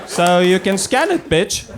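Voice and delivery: high, cocky practice run; rehearsed bravado. Acted. Comic rehearsing alone in her bedroom, acted bravado. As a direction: push the pitch up, acting assertive. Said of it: "I rehearse in my bedroom".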